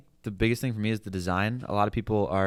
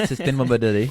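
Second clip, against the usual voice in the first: mock CEO delivery, laughing and louder; laughing imitation; 4 semitones higher, 7 dB louder, faster than usual. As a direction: repeat the phrase while cracking up. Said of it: "That's what he said".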